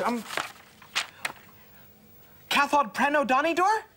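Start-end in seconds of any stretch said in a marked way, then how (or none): 2.5-3.8 "Cathod Preno Donidor" in a tourist's careful, hesitant Welsh; attempted Welsh. American lodger tries his Welsh on the family, learner's pronunciation. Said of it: "Haven't I got the pronunciation right?".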